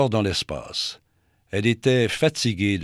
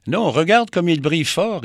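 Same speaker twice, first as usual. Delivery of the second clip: tag; 8 semitones higher, 6 dB louder than usual. Acted. Vénus répond vivement.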